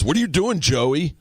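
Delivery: high, sudden call to his son; a father snapping at his kid in surprise; dad suddenly scolding his son Joey in the aisle; exasperated dad. Retold or imitated.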